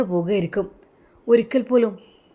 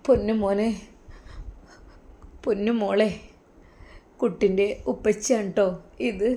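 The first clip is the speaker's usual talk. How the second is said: hushed, with long pauses between phrases; talking to a little child; 5 dB quieter than usual. Acted. Mother telling her little child that daddy has gone, hushed and halting. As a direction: break it gently to a small child, softly and haltingly. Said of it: "പിഞ്ചു കുട്ടിക്ക് ഞാൻ പറഞ്ഞു കൊടുക്കുമ്പോഴും".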